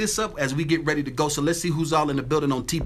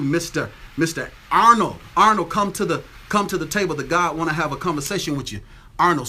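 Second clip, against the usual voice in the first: calling out; 3 dB louder than usual. Real, not acted. Calling Arnold out.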